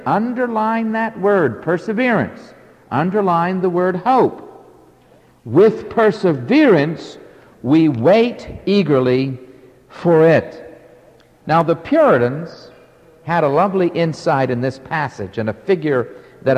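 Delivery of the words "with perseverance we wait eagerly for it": slow, deliberate pulpit reading; emphatic scripture reading. Acted. Preacher resuming the verse on waiting with perseverance, emphatic scripture reading. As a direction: finish the verse in separate, weighty phrases.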